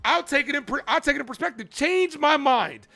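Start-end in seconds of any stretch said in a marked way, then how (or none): 1.7-2.9 drawn-out Change my mind, every word slow; slow meme delivery. Shown as a demonstration. Streamer challenging chat, slow and deliberate. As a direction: drag it out like the famous meme. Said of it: "It's like that meme".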